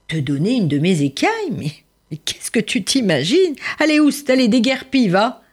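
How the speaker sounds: scornful shooing away, rising; mild mock scorn, oust déguerpis; haughty dismissal. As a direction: brush him off with disdain. Proud fish chasing off small fish.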